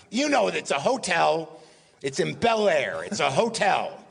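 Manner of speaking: mildly insistent impression, slow and stretched; Mel Brooks. Mel prodding for a hotel name, mock insistence. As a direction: lightly imitate exasperation, dragging the words out. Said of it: "then Mel Brooks goes".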